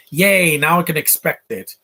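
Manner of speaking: slow, drawn-out sarcastic yay; sarcastic cheer. Real, not acted. Viewer reacting to a spoiled finale, sarcastic cheer. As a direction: cheer it sarcastically, dragging the words.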